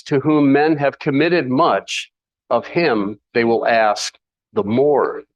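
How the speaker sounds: scripture read out slowly and deliberately. Shown as a demonstration. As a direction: let each word of the verse land slowly. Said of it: "And then it says".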